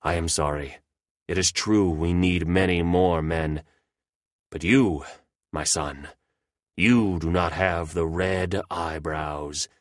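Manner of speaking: mildly mournful leader, slow at the end; deep regret. Acted. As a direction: let him down gently with regret. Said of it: "says with deep regret".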